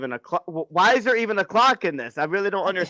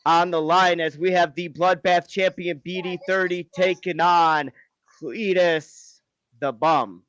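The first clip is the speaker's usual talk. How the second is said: drawn-out names in a match introduction; ring announcer; slower than usual. Acted. Host introducing champion and challenger, ring announcer style. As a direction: announce the title bout, stretching the key words.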